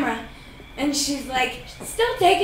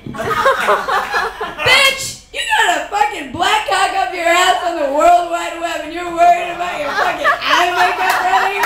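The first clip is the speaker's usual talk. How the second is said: mock angry rant at screen; 4 semitones higher, 5 dB louder than usual. Ranting at the porn star.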